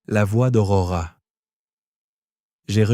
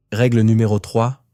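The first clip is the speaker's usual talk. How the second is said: hissed; 2 semitones higher, 4 dB louder than usual. Acted. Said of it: "sifflai-je".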